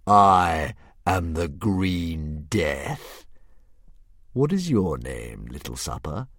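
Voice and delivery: slow, a hint of a grand beast; drawn out like a pleased old dragon; lightly voiced dragon. Dragon musing over Hiccup's riddle, slow and lightly grand.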